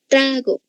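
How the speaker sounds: "Trago" with weight on TRA; stress on penultimate syllable. Shown as a demonstration. Teacher showing the stressed syllable, "Trago" said TRA-go. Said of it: "penúltima sílaba".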